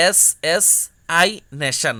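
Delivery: এস এস, then আই নেশন; syllable split. Shown as a demonstration. Teacher showing a memory trick for assassination. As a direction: break অ্যাসাসিনেশন into chunks. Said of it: "আলাদা আলাদা করে কি করছো".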